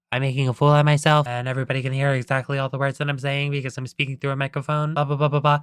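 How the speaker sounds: fast, lightly acted parroting; SpongeBob. Employee repeating his boss's whispers into the microphone, rapid recital. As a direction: rattle it off like repeating fed lines. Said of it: "repeating what Mister Krabs is saying back to him".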